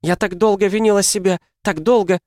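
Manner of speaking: high, loud tearful cry; weeping. A narrator's reading. Mother crying to husband about her guilt. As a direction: wail out years of guilt.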